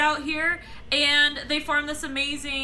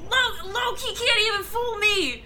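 wrestling promo; 6 semitones higher, 5 dB louder than usual. Pretend. Copying Thor promo, higher.

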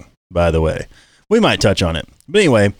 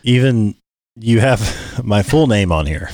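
monster voice; 2 semitones lower than usual. Real, not acted. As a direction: voice changer monster effect. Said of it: "I got the monster voice on there".

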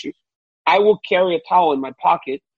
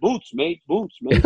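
higher-pitched mock Australian accent; 4 semitones higher, slower than usual. Host defends his impression of Australian guy, shaky-at-best Australian accent. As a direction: imitate an Australian guy, badly. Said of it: "You know, Australian guy".

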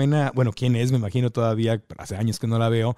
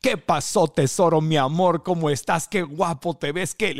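imitating a singer; 3 semitones higher than usual. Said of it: "siempre te saludaba con mucho entusiasmo".

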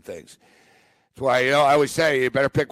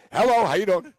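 bright eager phone greeting, a little higher; eager hello; 5 semitones higher, 4 dB louder than usual. Retold or imitated. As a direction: answer the phone too eagerly. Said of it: "like, eagerly".

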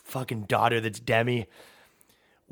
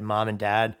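hushed whispered confession to parents; lightly voiced solemn daughter, whispering; mock grave daughter; 5 semitones lower than usual. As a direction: daughter breaking grave news to her parents, in a hush. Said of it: "you said".

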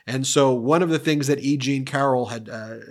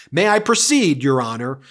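mock lawyer plea; 5 dB louder than usual. Lawyer pressing the judge, imitated raised insistence. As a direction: push the judge a bit, imitated. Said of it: "Alina Habba goes".

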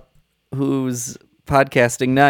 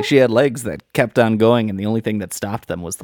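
film noir voice; 3 semitones lower than usual. Shown as a demonstration. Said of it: "your film noir voice".

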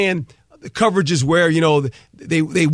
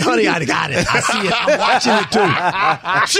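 laughing husband. Retold or imitated. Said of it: "I said".

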